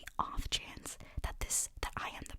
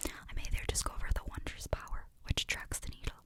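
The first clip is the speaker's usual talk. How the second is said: whispering the letter in a light Scottish accent; attempted Scottish accent. Shown as a demonstration. ASMR reader switching to a Scottish accent for the letter. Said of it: "I'm gonna try and do Scottish".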